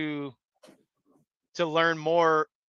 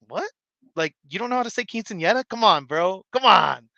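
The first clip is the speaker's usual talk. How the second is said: mock disbelief; 3 semitones higher, 4 dB louder than usual. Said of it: "And I'm like".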